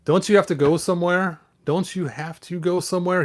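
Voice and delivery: He-Man voice. Acted. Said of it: "He-Man said to Stinkor".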